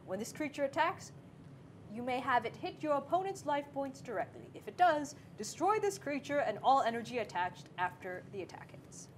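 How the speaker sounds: lightly voiced tree reading; talking tree. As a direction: read the card like a talking tree. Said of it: "This is my tree voice".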